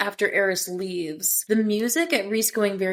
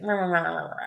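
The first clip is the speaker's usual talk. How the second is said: wordless mock grumble under the breath; imitated grumbling; 2 semitones lower, faster than usual. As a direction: lightly mimic someone muttering grumpily. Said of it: "Natalie grumbling was hilarious".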